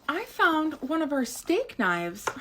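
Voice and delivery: high, slow, worried mom voice; mom's slow alarm. Retold or imitated. Mom telling the kids about the knife, mock alarmed. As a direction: spell out the shock like a scared mom. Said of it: "She goes".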